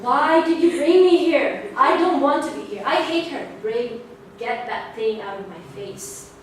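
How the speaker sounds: imitating a sulky jealous kid; sulking child. Jealous child sulking about the new baby, mock whiny. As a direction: whine it like a jealous big sister. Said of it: "I was sulking in the corner".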